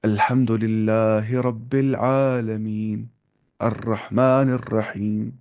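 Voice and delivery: slow recitation with thick heavy letters, Pakistani style. Shown as a demonstration. Teacher showing how Pakistanis recite, slowly. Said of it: "वैसे पढ़ेंगे".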